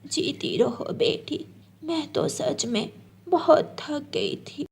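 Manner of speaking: put-on slow, soft, weary old voice; an exhausted granny giving her blessing; tired old woman. Old bird mother thanks the girl for carrying wood.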